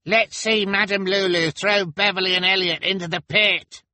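very high, loud yell; goading heckler's shout; cried out. Acted. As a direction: holler it from a rowdy crowd. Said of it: "cried the pimple man".

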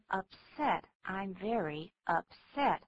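"upset" stressed on SET; slow demo with "upset" accented on its last syllable; stress on second syllable. Shown as a demonstration. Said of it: "重音在第二个音节".

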